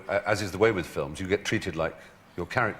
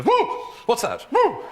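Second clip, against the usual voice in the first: high, loud startled yelps; shy at nothing like a nervy horse; mock spooked horse; 6 dB louder, slower than usual.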